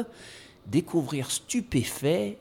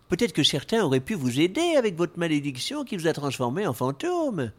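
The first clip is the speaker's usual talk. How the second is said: earnest knight; 4 semitones higher than usual. Acted. Plays the knight.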